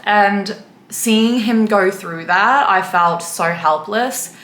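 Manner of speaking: getting emotional. Real, not acted. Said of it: "I don't know why I'm getting emotional".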